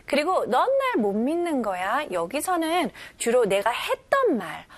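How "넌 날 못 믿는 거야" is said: lightly hurt question tone; a touch wounded, asking; mild hurt tone. Shown as a demonstration. Teacher explains the feeling in a mildly hurt tone. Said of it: "이런 말투입니다".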